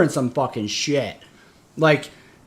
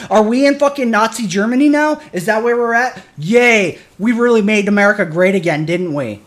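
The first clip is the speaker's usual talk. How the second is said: bitter sarcasm; 5 semitones higher, 4 dB louder than usual. Real, not acted. Sarcastic rant about the country.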